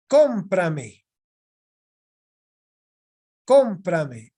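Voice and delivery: CÓM in "Cómprame" hit loud, then falling away; esdrújula stress. Shown as a demonstration. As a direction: punch the first syllable of "Cómprame". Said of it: "Se ha convertido en una esdrújula".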